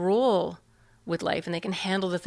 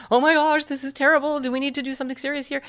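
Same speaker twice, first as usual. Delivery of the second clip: alarmed parent; 6 semitones higher, 3 dB louder, faster than usual. Retold or imitated. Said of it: "Take your agenda, which is".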